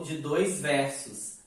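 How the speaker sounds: ordinary delivery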